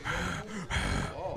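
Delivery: imitating a hard mouth-blown huff; angry blow. Coworker mimicking a mad hardware colleague, angry blowing. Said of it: "blow out of his mouth really loud".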